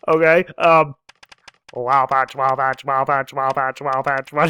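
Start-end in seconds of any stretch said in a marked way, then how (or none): 1.7-4.5 playful chanted character voice; Frau voice. Acted. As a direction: bounce the words like a sassy hacker girl. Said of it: "especially in my Frau voice".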